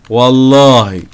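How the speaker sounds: loud drawn-out oath; vowing payback. Real, not acted. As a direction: belt out the oath, stretching it. Swearing revenge after being hit. (حلفان بصوت عالي وممطوط)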